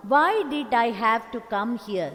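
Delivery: grumbling to himself about coming here; mild fretful bear. Acted. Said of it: "said he to the dog".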